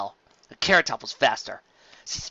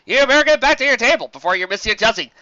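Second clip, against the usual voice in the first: louder, smug villain; mock sorry; 7 semitones higher, 9 dB louder than usual. Flam dismisses Carrot Top, smug and loud. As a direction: fake polite dismissal.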